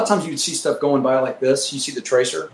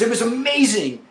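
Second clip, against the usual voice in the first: mock awe; 8 semitones higher than usual. Wingman raves about the flak.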